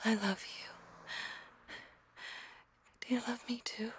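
soft, close whisper in a hug; breathy, tender murmur; whispered while hugging. Acted. Girlfriend whispering into the listener's ear during a hug.

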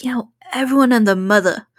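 quick, badly faked New York accent; shitty New York accent. Retelling a stray remark on the stairs, rough New York accent. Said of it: "a really shitty New York accent".

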